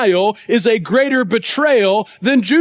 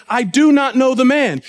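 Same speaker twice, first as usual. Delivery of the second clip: firm, mildly emphatic denial; escalating denial. Acted. Peter denies knowing Jesus a second time, firmly. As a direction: deny it outright, at a normal pace. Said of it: "See how he escalates and goes further".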